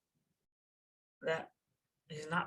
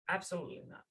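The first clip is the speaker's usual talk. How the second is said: quiet firm refusal; 7 dB quieter, much faster than usual. Retold or imitated. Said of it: "And the Rebbe said".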